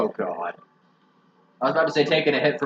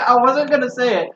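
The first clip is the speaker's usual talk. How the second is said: high-pitched, louder, through laughter; laughing; 8 semitones higher, 3 dB louder than usual. Real, not acted. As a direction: protest while cracking up. Cracking up at friend's remark.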